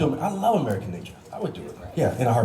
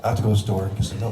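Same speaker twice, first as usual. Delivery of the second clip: fast Oliver Queen take, rising at the end; Oliver Queen with hand move; 5 semitones lower, faster than usual. Retold or imitated. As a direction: deliver it quick, as a hint of the brooding hero. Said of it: "This is Oliver Queen doing".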